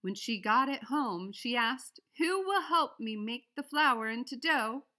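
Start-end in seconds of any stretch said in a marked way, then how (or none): 2.2-4.9 higher, louder, slow hen voice; a small hen asking nicely for help; hopeful hen asking. A narrator's reading. The little red hen asking the animals for help, slow and hopeful. Hen asks helpers, reading to children.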